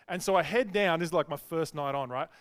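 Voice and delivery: ordinary talk, nothing marked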